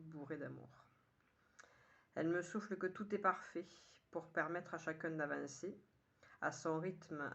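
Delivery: measured poem reading in short, paused phrases; poem recitation. Acted. Poet sharing today's poem with listeners, measured recitation. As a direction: recite it line by line, lifting the opening. Reads own poem aloud.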